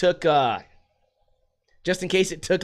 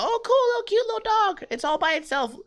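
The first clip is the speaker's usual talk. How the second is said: much higher-pitched cooing over a dog; high cutesy gushing. Retold or imitated. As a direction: squeal sweetly at a cute little dog.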